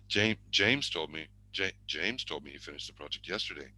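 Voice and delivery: JAMES repeated and leaned on, then the rest falls; stress on James. Shown as a demonstration. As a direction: put the weight on "James". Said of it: "Place the emphasis on the stressed words".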